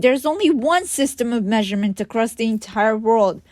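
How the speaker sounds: "one" hit hard and high; stress on one. Retold or imitated. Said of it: "emphasizing the word one".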